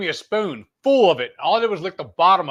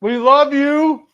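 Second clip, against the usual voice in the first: sing-song; 11 semitones higher, 8 dB louder, much slower than usual. Real, not acted. Teasing call to the viewers.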